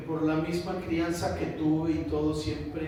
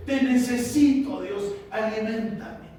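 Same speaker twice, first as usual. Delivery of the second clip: raised, pleading cry to God; tearful plea; 4 semitones higher, 4 dB louder than usual. Acted. Praying to God out of need, tearful plea. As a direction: plead loudly, as if close to tears. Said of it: "es este lloro de decir".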